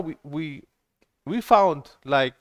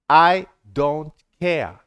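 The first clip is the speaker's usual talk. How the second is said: slow, louder, offhand brush-off; dismissive mimic; 6 dB louder, much slower than usual. Mimicking the moderator who dismissed her complaint, slow and dismissive. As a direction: drag out the words like you couldn't care less. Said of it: "That's what he said".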